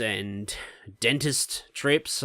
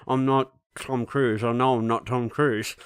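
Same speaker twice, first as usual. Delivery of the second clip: slow, deadpan meek answer; patient meekly answering the dentist, deadpan; deadpan reply. Retold or imitated. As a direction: mumble it back, defeated. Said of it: "And I'm just like".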